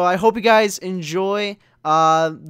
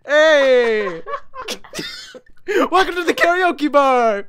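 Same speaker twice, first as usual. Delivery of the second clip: loud, high host cheer; excited shout; 10 semitones higher, 5 dB louder, much slower than usual. Acted. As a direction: hype up the crowd. Opening the karaoke bar.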